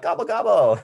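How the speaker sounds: high, loud turkey gobble; standard gobble. Acted. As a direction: gobble like a plain turkey, half laughing. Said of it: "I do a standard gobble".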